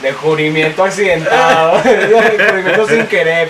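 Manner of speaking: slow, laughing restatement; slow words through laughter. Real, not acted. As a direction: drag it out while laughing.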